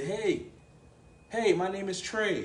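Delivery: light voice placed high. Contrasting speaking from up here versus down here: high, light head voice. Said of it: "You know that's up here".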